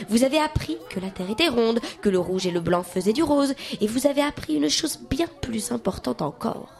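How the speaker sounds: lightly voiced cheerful schoolteacher; a hint of a teacher calming pupils; reassuring teacher. Mademoiselle Faux-Folle reassures her nervous class before the exam, lightly voiced.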